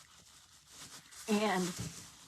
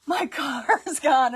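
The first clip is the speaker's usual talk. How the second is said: alarmed; 6 semitones higher, 8 dB louder than usual. Retold or imitated. Teen finds car missing.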